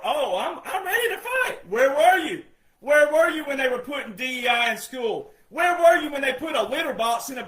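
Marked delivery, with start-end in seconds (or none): 0.0-1.7 mock bravado. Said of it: "people are".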